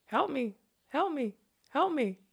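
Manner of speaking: high, thin cries of bony birds; a lightly squeaked bird's cry for help; bird squeal. A narrator's reading.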